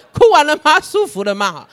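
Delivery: a hint of a teasing fatherly voice; God asking gently. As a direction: ask like a parent after a tantrum. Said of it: "神也是这样问". (神像父亲般逗问)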